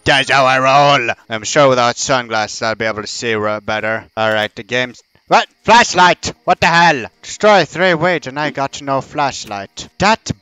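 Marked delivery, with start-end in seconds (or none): 5.3-7.1 sudden alarmed shout; startled. Real, not acted. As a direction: jump at the scare. Startled in horror game.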